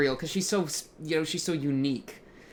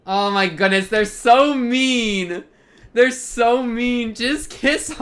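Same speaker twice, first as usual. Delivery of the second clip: high, loud, drawn-out whining at the screen; real frustration that the kiss never comes, wailed out; exasperated fan outburst; 8 semitones higher, 9 dB louder, slower than usual. Real, not acted. Fan wailing at the characters on screen, high and loud. Fan yelling at a teasing scene.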